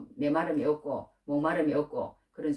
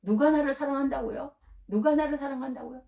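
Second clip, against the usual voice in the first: higher, wondering voice; weeping man's question; 7 semitones higher than usual. Retold or imitated. A Japanese man, weeping, asks the missionary in wonder. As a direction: ask it like a stunned man in tears. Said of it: "그렇게 묻더라는 거예요".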